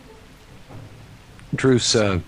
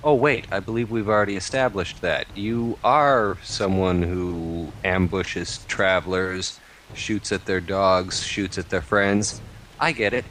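sarcastic accusation. Acted. Druce mocks the brigand.

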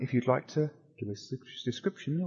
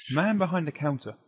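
ordinary delivery

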